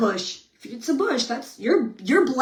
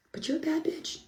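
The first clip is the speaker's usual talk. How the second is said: dropped much softer, a little higher; hushed swearing; 4 semitones higher, 12 dB quieter than usual. Real, not acted. Woman reminding herself in the bathroom after chores, hushed swearing. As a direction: sneak the rude words out quietly. Same swear word in self pep talk.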